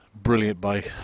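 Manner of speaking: soft whispered praise. Real, not acted. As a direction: whisper it fondly. Unvoiced closing remark.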